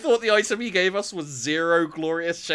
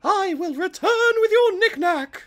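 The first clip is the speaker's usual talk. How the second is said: heroic exclamation; 6 dB louder, slower than usual. Acted. Heroic reply to NPC.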